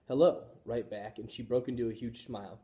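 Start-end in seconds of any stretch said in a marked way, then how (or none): 0.1-0.5 high, loud squeaky hello; hamster squeak hello. A narrator's reading. Hamster answering the mother, high squeak. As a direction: chirp it back brightly. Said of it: "I squeaked".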